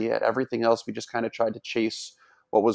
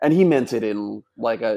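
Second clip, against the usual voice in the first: ordinary delivery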